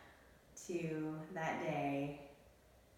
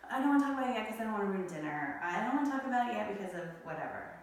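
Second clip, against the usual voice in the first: fast, tossed-off excuses; rattled-off excuses; 3 semitones higher, 3 dB louder, much faster than usual. Retold or imitated. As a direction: rush through his excuses.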